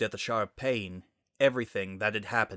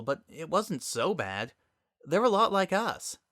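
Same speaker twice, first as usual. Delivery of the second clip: higher, wondering voice; musing Sunset; 5 semitones higher than usual. Acted. Sunset telling her dad about the other world, higher and musing. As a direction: recall a strange place with wonder.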